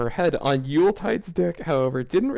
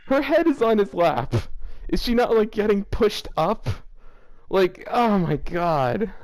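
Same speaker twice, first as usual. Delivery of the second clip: laughing disbelief; 6 semitones higher than usual. Real, not acted.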